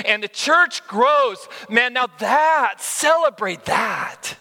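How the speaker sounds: impassioned, slow, emphatic preaching; worked up. Real, not acted. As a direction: build with fervor, stretching the key words. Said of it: "I'm so worked up about this".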